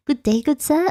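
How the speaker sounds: mock formal greeting. Shown as a demonstration. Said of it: "doesn't sound quite right".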